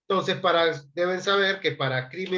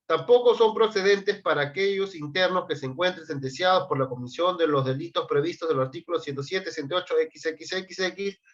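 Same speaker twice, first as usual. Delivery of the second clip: quicker read-aloud. Real, not acted. Teacher reading the article to save time, brisk read-aloud. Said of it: "yo lo leo para más ráp-, más rápido".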